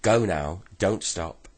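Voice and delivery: angry order. Acted. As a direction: bark the order at the boy. Old woman ordering boy away.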